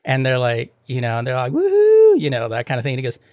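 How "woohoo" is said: high squealing party whoop; excited whoop. Retold or imitated. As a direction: cheer it out like a party girl. Party girls cheering in Vegas.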